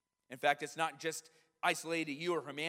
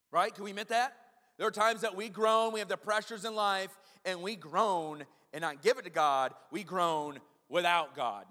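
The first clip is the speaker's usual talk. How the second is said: preaching emphasis; 3 semitones higher, 5 dB louder than usual. Acted. Preacher builds to emphatic point.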